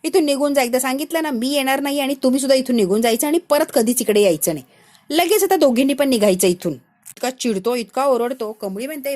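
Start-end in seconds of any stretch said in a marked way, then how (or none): 0.0-6.7 a mild, understated angry yell. Acted. Angry boy shouting at friends to leave him alone. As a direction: snap at them to leave, only lightly raised. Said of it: "मोठ्या आवाजात त्यांच्यावर ओरडून बोलतो".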